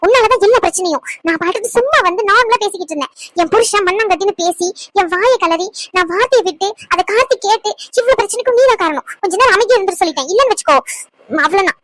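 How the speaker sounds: irritated, telling someone off; angry outburst. Acted. Nurse telling a meddling man to shut up, angry. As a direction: snap back in mild anger. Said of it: "ஏன் இவ்ளோ கோவம்?".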